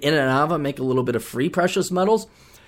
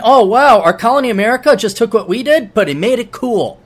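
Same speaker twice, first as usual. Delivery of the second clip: impressed Brit; 6 semitones higher, 5 dB louder than usual. Pretend. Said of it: "and then".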